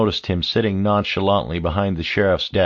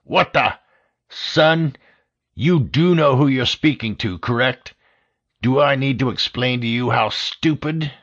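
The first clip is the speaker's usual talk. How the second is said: higher, outraged disbelief; incredulous anger; 5 semitones higher than usual. A narrator's reading. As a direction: sputter with exasperated rage. Director incredulous, exasperated.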